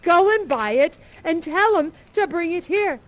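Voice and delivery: put-on gleeful generous old man; eager Scrooge. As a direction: hurry the boy off. Scrooge urging the boy.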